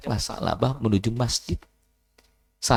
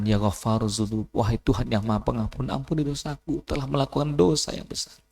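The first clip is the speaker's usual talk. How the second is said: tearful plea; 4 dB quieter than usual. Acted. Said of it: "sambil menangis dan mengatakan".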